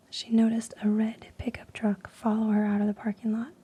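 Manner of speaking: whispered campfire tale, building suspense; spooky story reading. Acted. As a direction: draw the listener into the scary story. Reads second horror story.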